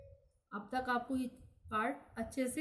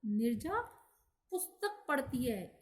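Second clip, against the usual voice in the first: पुस्तक set off by a pause before it; stress on पुस्तक. Shown as a demonstration. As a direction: pause after Nirja, then emphasise पुस्तक. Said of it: "इसमें पुस्तक पर जोर दिया जा रहा है".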